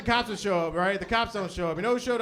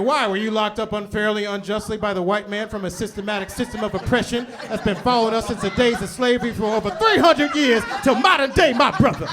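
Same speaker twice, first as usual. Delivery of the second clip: mock activist speech.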